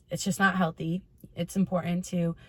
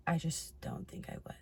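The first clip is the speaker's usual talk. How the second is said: whispered under the breath; whispering; 11 dB quieter than usual. Real, not acted. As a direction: murmur it as an aside. Trailing doubtful aside.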